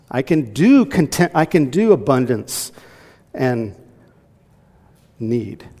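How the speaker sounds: hammered emphasis on each do; emphatic preaching. Shown as a demonstration. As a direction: preach it out with force. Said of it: "That's what it's talking about".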